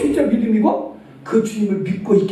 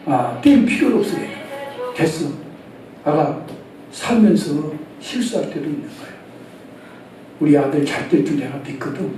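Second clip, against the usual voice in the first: lower, soft reassuring mother; tender comfort; 6 semitones lower, 4 dB quieter than usual. Pretend. A mother forgiving her son, soft and tender. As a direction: soothe the child gently.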